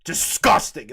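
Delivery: loud scoff of disgust; hammed-up contempt; mock disgust. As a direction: spit it out like an imagined disgusted passerby. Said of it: "they aren't gonna go".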